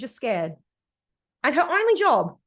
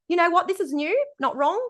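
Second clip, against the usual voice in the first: coach voice; 4 semitones higher than usual. Retold or imitated. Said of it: "Might even say".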